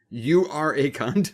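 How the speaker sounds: slow, deadpan spelled-out insult; mock sign-in name. Mocking a bathroom sign-in name, deadpan. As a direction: say it flatly like a joke name. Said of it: "be like".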